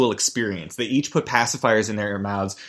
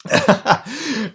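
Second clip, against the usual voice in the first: short high burst of laughter; high-pitched giggle burst; 10 semitones higher than usual. Real, not acted. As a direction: break into a quick, high laugh. Laughs at own plugging.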